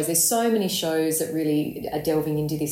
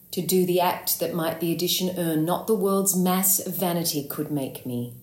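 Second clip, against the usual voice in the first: measured, earnest Shakespearean vow; solemn dramatic declaration; pouring out. Acted. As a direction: let the denial pour out in steady verse. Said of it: "comes pouring out of her".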